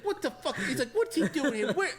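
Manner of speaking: high, laughing outrage; indignant rant. Retold or imitated. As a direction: rant about the old man's family.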